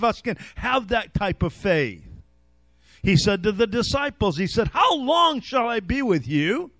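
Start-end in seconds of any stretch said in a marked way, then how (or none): 4.7-6.7 frustrated appeal, pitched up toward the end. Retold or imitated. Jesus to his bickering disciples, frustrated. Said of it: "He was frustrated with them".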